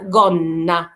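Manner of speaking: slow "جونا" with a long n; doubled n. Shown as a demonstration. Teacher showing a double n, doubled n. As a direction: hold the middle n in "جونا". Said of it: "ن، ن".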